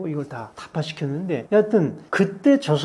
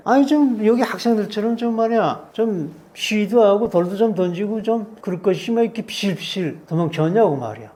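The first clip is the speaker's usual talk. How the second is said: rude interrogator. Retold or imitated. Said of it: "막 쌍욕하고 야자하고".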